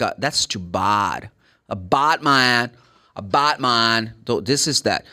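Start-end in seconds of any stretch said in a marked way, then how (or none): 0.2-4.1 bad with a British ah vowel, slow; British too bad. Shown as a demonstration. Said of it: "British would go like".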